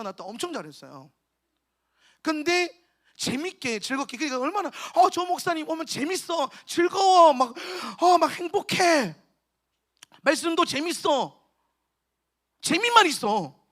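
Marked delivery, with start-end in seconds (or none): 4.9-11.4 delighted praise. Retold or imitated. Voicing delighted children praising the preacher.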